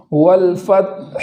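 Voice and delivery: slow والفتح with audible ح; slow tajweed demo. Shown as a demonstration. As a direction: recite والفتح slowly. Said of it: "اس طریقے سے پڑھیں گے".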